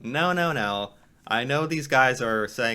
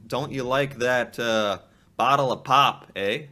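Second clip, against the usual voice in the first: mock Canadian; 4 dB louder than usual. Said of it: "kind of saying".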